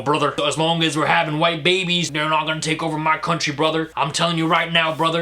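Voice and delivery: a light parody of a racist white guy calling everyone brother; mock racist bro. Mocking racist white men who fear losing their country, in a light bro voice. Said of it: "I'm talking about the racist white men".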